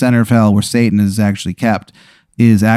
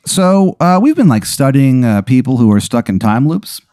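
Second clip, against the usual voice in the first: higher-pitched, chipper company rep; corporate caller; 3 semitones higher than usual. Acted. Corporate woman pitches the player a deal, chipper. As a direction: pitch the offer brightly.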